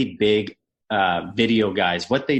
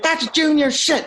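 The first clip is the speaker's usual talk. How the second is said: high, loud, slowed imitated scolding; angry coach; 3 dB louder, slower than usual. Coach mocking the trick during video session, slow high loud mock scold. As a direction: drag it out like a disgusted coach. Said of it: "He's like".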